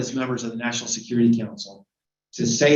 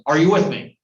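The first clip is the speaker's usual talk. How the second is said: demanding question; 3 semitones higher, 6 dB louder than usual. Retold or imitated. Putin demanding loyalty, retold.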